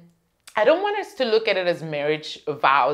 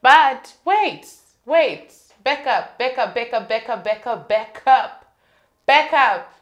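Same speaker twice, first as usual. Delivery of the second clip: dramatic; 4 semitones higher, 4 dB louder than usual. Real, not acted. Dramatic pushback.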